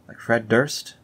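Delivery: normal talking voice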